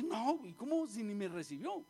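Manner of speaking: mildly indignant mock protest; offended indignation. Naamán complaining that the prophet did not receive him, mildly indignant. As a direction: act out a man taking offence. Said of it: "él se molesta, se enoja".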